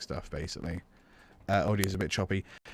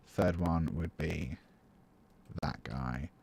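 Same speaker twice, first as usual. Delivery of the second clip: fading to a whisper. Shown as a demonstration. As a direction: let the voice die away into a whisper. Counting notes down, fading out.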